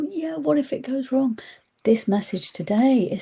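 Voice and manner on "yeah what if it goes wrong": higher, whispered nagging doubt; whispering gremlin. Retold or imitated. Anxiety gremlins whispering doubts, higher. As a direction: hiss the worry like a mind gremlin. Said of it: "these mind gremlins ... go".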